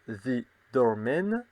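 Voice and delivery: slow, careful French-accented English; The Doorman read slowly with a heavy French accent; clumsy English accent. Real, not acted. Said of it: "Désolé pour mon accent anglais qui est terrible".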